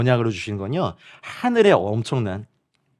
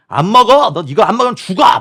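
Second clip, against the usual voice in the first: loud, high-pitched angry outburst, acted out; imitated shouting; 7 semitones higher, 7 dB louder than usual. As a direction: yell like someone shouting in refusal. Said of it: "막 소리치는 분들이 계셨어요".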